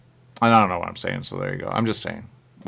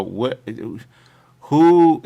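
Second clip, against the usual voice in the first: sudden high, loud mock disbelief; a playful put-on shock; baffled what who; 3 semitones higher, 6 dB louder than usual. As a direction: jump up in pitch and volume, startled. Acting out a baffled reaction.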